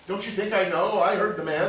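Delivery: frustrated husband snapping at his worried wife; exasperated snap. Acted. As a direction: bite back at her, stung.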